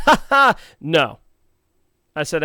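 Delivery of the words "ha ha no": mocking laugh. Mock-laughing refusal to salesman.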